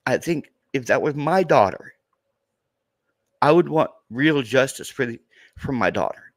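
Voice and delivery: fighting back real tears over his daughter; choked up, on the edge of crying; starting to cry. Real, not acted. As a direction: voice rising and tightening with tears. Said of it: "Sorry, I'm starting to cry".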